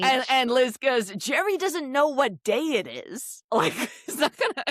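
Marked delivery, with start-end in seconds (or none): 1.2-4.6 dismissive Liz. Retold or imitated. Imitating Liz's dismissive remark.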